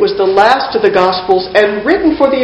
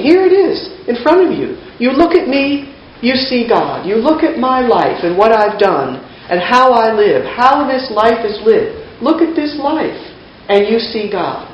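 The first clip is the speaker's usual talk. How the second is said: mildly acted exasperation; exasperated. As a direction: plead with people who just don't get it. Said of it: "an exasperated tone 'cause people just don't get it".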